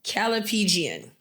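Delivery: Calipegian, slow and carefully sounded out; careful pronunciation. Real, not acted. Host attempting the word of the day, pronouncing carefully. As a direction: sound out Calipegian slowly and properly. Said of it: "try to pronounce this properly".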